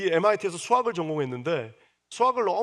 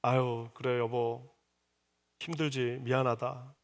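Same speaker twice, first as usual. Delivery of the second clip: softer, lower, tender consoling; comforting husband; 4 semitones lower, 5 dB quieter, slower than usual. Acted. Loving Jacob comforting Rachel, soft and tender. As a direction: gently soothe a hurting wife. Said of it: "이렇게 위로를 하든지".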